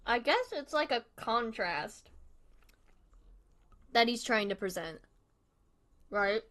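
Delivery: talking while chewing; words round a bite of food; mouth full. Real, not acted. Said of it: "don't mind me eating with my mouth".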